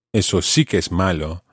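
"sí" pressed in "Eso sí que es malo"; stress on sí. Shown as a demonstration. Teacher's example of emphasis, stressing sí. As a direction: lean on "sí" as emphasis. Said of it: "used for emphasis".

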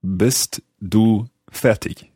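slow, careful learner's German accent. Shown as a demonstration. Host repeats after the native speaker, in halting learner's German accent. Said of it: "in my rather bad German accent".

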